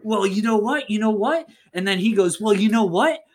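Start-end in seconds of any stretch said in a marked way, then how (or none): 0.0-1.5 mildly heated mock confrontation; a touch of angry challenge; steamy anger. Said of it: "it's, like, sexy, steamy, angry". 2.4-3.2 high, quick mock-angry threat; worked-up retort, tumbling faster; steamy anger. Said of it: "angry, like".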